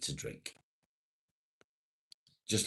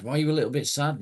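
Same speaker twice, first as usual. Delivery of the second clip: concerned; 8 semitones higher, 7 dB louder, much faster than usual. Real, not acted. Asks sad viewer.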